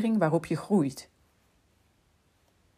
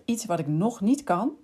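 "nog" pushed hard, the key word; stress on nog; 2 semitones higher than usual. Shown as a demonstration. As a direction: lean into "nog" so it carries the line. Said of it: "met de nadruk op het woord nog".

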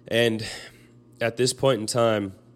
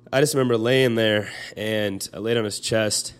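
a little louder, halting, voice catching; holding it together through real tears; choked up; 4 dB louder than usual. Real, not acted. Recalling lying on his dying grandpa's chest, choked up. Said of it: "I'm getting really choked up".

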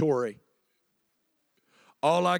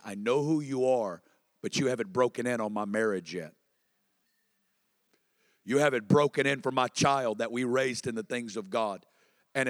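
hurt prayer; 6 semitones lower, 4 dB quieter than usual. Acted. Voicing a believer's hurt prayer.

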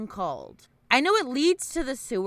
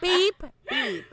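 lightly voiced higher clown beep beep; clown catchphrase; 9 semitones higher than usual. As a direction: tease like a mocking clown. Mimics Pennywise catchphrase.

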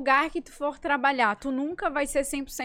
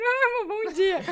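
much higher, sugary good morning with a laugh; mock sweet boyfriend; 7 semitones higher than usual. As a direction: tease his chirpy greeting. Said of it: "Aí ele me conta no banheiro".

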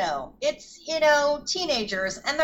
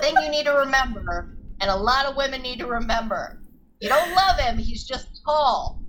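mock lecture. Podcaster reminding women he's just tall, mock lecture.

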